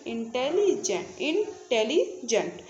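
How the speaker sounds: slow syllables. Shown as a demonstration. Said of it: "इसका syllable तीन तरीके से हो सकता है".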